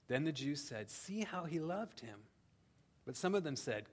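measured, solemn Bible reading; scripture reading. Acted. Reads John 11 aloud.

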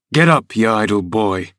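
gruff father with put-on cheer; falsely hearty call to his son; assumed heartiness. A narrator's reading. Father rousing his idle son, mock hearty. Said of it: "he exclaimed with assumed heartiness".

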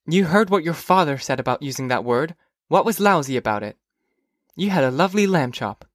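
lightly voiced mother's reproof; reproving mother. Mother correcting Phoebe's language, mildly reproving. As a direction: mildly scold a child over her words.

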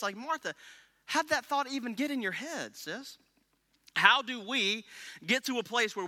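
Jesus gently teasing Martha about her worry; pleading Jesus. Acted. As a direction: gently chide a worried friend. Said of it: "a proper rendering in the context is".

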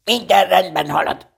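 high-pitched, firm reassurance; reassuring. A narrator's reading. Rabbit in the doorway to Pooh, reassuring. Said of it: "nyugtatta meg Nyuszi az ajtóban állva".

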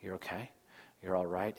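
hushed, low reassurance; soft, soothing voice. Retold or imitated. God to the fearful, rubbing their back, soft soothing voice. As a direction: imitate a father gently settling a fearful child. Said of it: "he's being talking in a soft voice".

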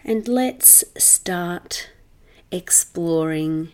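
measured meditation voice with long pauses; guided meditation. Acted. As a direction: guide the listener into settling, unhurried.

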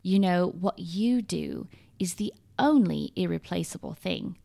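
whispered, hushed imitation of a British accent; soft British accent. A friend's comforting words to a down mum, in a hushed British accent. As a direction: breathe it gently in a borrowed British accent. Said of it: "in her beautiful British accent".

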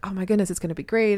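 a hurried gush of retold support; excited, supportive. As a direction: lightly mimic excited well-wishers. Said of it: "all super supportive and excited and like".

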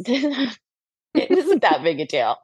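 slow, laughing dismissal. Real, not acted. Telling friends about mom, slowly laughing. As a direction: drag it out through a laugh.

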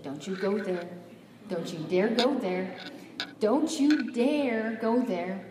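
firm warning, building in insistence; warning inner voice. Retold or imitated. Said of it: "there's a little voice in my head".

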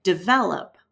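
"develop" stressed on the middle syllable, de-VEL-op; stress on second syllable. Shown as a demonstration. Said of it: "stress is really strongly on the second syllable".

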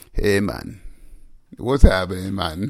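put-on low English accent that slips into Jamaican; botched English accent. Co-host shows his "real" English, Jamaican-sounding accent. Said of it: "let me tell my real English accent".

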